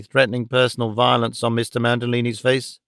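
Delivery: usual speaking voice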